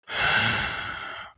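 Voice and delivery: exasperated sigh. Retold or imitated. Man finally broken by years of pranks.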